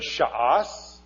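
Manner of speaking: "sha'as" in two beats, sha-AHS; Hebrew word demo. Shown as a demonstration. Teacher showing child roots of shas, sounded out slowly. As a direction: stretch "sha'as" slowly with two separate A vowels. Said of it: "here we have the word".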